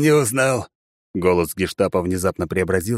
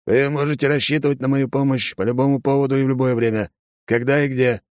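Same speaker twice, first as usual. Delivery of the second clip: a hint of a gruff officer turned obliging; polite, helpful old officer; courteous colonel; 7 semitones higher than usual. A narrator's reading. Colonel offering help to the young woman, obliging.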